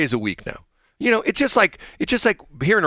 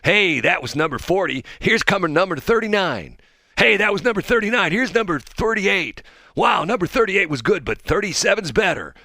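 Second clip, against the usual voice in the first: lightly voiced upbeat host, higher; breezy countdown patter, a touch higher; Ryan Seacrest impression; 6 semitones higher than usual. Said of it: "and he says".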